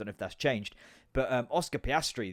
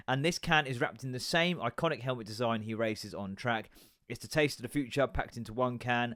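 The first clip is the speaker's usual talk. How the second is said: ad read. Shown as a demonstration. Reads ad copy off can.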